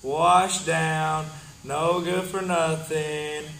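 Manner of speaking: angry heel rant. Acted. Heel trashing opponent in promo.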